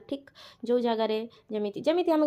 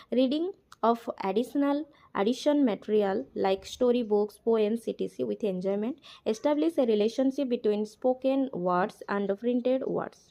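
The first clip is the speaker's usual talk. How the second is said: slow, deliberate reading of the English text aloud; slow textbook reading; much slower than usual. Acted. Teacher reads the textbook line aloud, very slowly. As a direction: read each word out slowly for the class.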